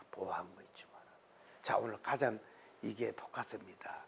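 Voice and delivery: hushed whisper to the congregation; whispered preaching. Real, not acted. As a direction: drop to a whisper, intense.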